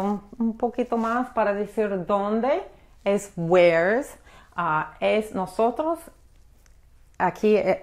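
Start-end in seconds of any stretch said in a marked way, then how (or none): 3.4-4.1 "where's" run together as one word; contracted where's. Shown as a demonstration. English teacher showing learners the American short form, "where's" as one contracted word. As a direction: say "where's" as a single syllable. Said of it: "en vez de de siempre decir where is por separado".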